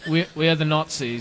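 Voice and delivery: lightly mocked German accent; half-hearted fake German accent; bad German accent. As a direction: imitate a film Nazi's poor German accent. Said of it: "had the worst German accents".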